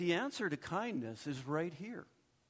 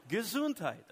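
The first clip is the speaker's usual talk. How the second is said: higher, hammed-up German accent; mock German; 6 semitones higher, 4 dB louder than usual. Pastor jokes about German babies, mock German accent. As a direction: bark it out as a jokey German. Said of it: "babies cry with an accent".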